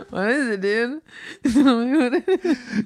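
high, giggly plea for the answer; cracking up while asking; laughing question. Real, not acted. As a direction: ask it through your laughter.

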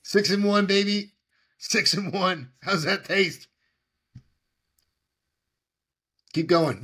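high loud hype-man cheering; frat bro. Real, not acted. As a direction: cheer on a buddy, pumped up. Cheering, gloating about the game.

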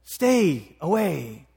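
stern, emphatic order with long pauses; harsh voice. Acted. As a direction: shush a beggar harshly, word by word. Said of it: "it's a pretty harsh voice".

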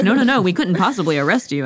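playfully hammed-up protest; mock protest. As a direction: rush out an exaggerated polite refusal. Mock police refusing to arrest someone.

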